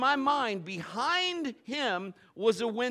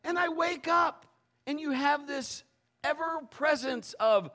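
usual speaking voice

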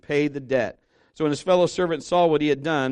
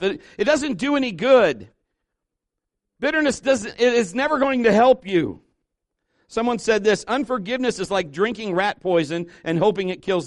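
high, raised preaching voice; forceful preaching; 7 semitones higher, 4 dB louder than usual. Real, not acted. Preacher warning the congregation about grudges, forceful preaching. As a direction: press the point home to the congregation.

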